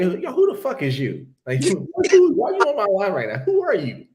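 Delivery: loud, high-pitched challenge; indignant shout. Retold or imitated. Confronting a stranger on his live, retold indignant shout. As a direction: demand answers, voice shooting up loud.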